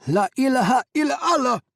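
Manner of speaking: high, loud wailing cry; wailed. A narrator's reading. Hamid crying out before the blast, loud wail. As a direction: wail it to the sky. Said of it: "Hamid wailed".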